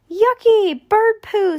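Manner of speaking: put-on high, loud kid's disgust; high-pitched yucky squeal; Stink's yuck. A narrator's reading. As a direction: squeal it like a grossed-out little boy. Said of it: "said Stink".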